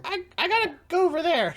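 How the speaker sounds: very high flustered squeak. Acted. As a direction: squeak it out, embarrassed. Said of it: "she says".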